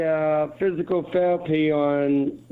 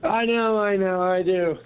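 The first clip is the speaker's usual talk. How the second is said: gravelly sick voice; 3 semitones higher than usual. Real, not acted. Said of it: "You sound like Gravel Gertie".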